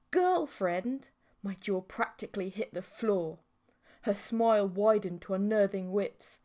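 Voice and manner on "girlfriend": stunned echo. A narrator's reading. Narrator stunned by claim.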